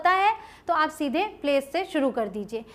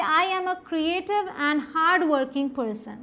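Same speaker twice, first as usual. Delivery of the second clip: slow model sentence; much slower than usual. Shown as a demonstration. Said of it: "उसके अलावा देखिए".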